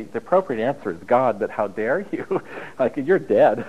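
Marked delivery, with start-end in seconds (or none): 2.8-3.6 slow, laughing you're dead; laughing mock threat. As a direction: tease with a laugh.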